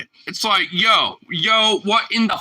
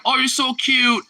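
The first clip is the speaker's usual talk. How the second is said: high, gushing mock coo; mock dog lady; 9 semitones higher than usual. Mocking suburban women gushing over purse dogs, high gush. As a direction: lightly ham up a doting dog owner. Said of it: "and they're like".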